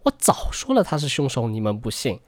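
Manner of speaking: gloating, high-pitched jump into an I-told-you-so; smug told-you-so. Retold or imitated. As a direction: crow like a know-it-all online commenter. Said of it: "之前的董哥们呢，瞬间就支棱了起来，一时间各种类似".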